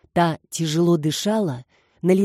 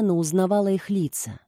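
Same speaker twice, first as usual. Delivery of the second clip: plain reading voice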